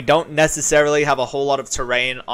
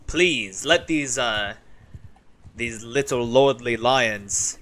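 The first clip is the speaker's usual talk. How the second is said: a hint of a grand sultan reciting poetry; poetic sultan; 2 semitones lower than usual. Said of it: "Sultan Solvares speaks in, like, uh, poetry".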